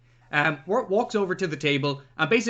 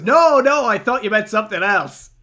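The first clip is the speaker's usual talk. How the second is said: quoted movie line; 2 semitones higher, 7 dB louder than usual. Retold or imitated. Retelling movie dialogue.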